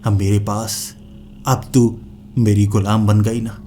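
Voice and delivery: a touch of cruel triumph; gloating. Acted. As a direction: rub her defeat in. Gloating over the captured witch.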